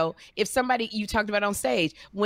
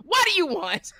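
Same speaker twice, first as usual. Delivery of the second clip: high, louder mock demand; teasing call-out; 12 semitones higher, 3 dB louder than usual. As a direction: poke at David with a playful yell. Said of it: "And I said".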